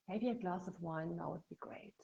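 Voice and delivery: whispered temptation, soft and coaxing; tempting whisper. Retold or imitated. Coach voicing the craving thought as a whisper. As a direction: breathe it like the craving in your ear. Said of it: "those little whispers in our ear".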